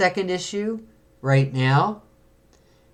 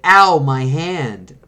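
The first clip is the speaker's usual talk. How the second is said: pained cry; 5 dB louder, much slower than usual. Acted. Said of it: "It's like".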